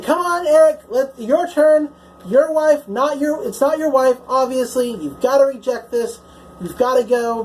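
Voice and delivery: urgent pleading. Retold or imitated. Doctor urging Eric to reject.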